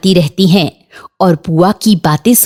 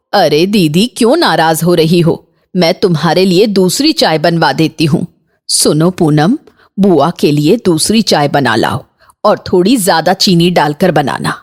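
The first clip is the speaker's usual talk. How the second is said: low, soothing elder voice; pitched down to calm things, then instructing; placating mother-in-law; 3 semitones lower than usual. Acted. Mother-in-law placating annoyed sister-in-law, low placating voice.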